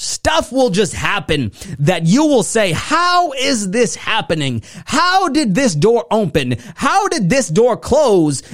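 high, drawn-out preacher's amazement; fired-up motivational crescendo, pitched high; excited preaching. Real, not acted. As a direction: marvel at it like a revival preacher. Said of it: "I haven't got this excited in a long time".

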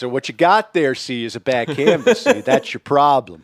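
a hint of a gruff mechanic; lightly voiced know-it-all mechanic. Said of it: "my mechanic voice".

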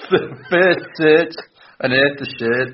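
high, exaggerated Scouse attempt; bad Scouse accent. Podcaster retrying the test phrase after laughing, bad Scouse accent. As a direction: lean hard on Liverpool vowels, pitched high. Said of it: "my awful accent".

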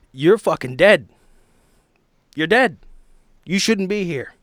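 loud anguished rant rising to a scream; building to a furious shout. Acted. Bernard rages at his dead wife.

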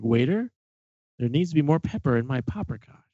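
lightly imitated pompous diner; a hint of a haughty rich man calling a waiter; silly voice. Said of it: "He was doing that, uh, silly voice".

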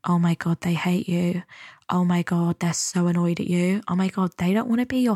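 hushed dread, lightly acted; anxious inner voice. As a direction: play the nagging brain, dropping toward a whisper. Voices anxious brain's nagging thoughts.

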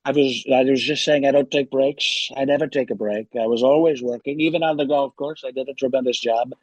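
lightly voiced boastful president impression; Donald Trump. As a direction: play a rambling, self-congratulating president. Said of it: "just doing the forty-fifth President of the United States, Donald Trump".

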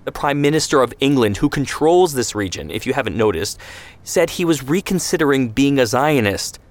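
high, pushed indignant tirade; heated rant. Acted. Ben Shemen berates Zvi about the Etzel, heated. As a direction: hammer him with each point.

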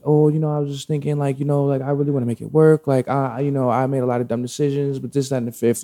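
imitating an ex's rambling excuses; mock rambling rant. Ex explains herself to him, mock rambling. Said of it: "going on this whole little rant".

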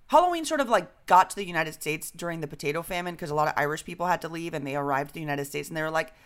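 normal talking voice

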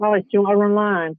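quick, lightly imitated Northern English accent; a touch of Northern English, fast. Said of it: "like, Northern English accent".

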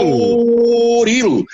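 drawn-out, sung announcer call of Doril; booming ad voice, long vowels; radio ad announcer. Shown as a demonstration. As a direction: stretch Doril like a radio jingle. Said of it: "tudo é a forma da entonação".

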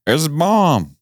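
bomb punched high and falling; stressed reveal. Real, not acted. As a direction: hit bomb hard and high. Repeats reveal for effect.

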